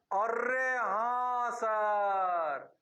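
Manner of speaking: slow, drawn-out eager student agreeing; mock student. Student agreeing with the teacher, slow and drawn out. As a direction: play the student who suddenly gets it, stretching the words.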